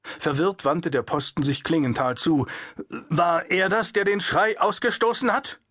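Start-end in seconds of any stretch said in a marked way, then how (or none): 3.1-5.6 guard's question, pitched up and startled; startled demanding question. Acted. The guard asks the puppeteer, startled and suspicious. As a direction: ask it with shaken suspicion.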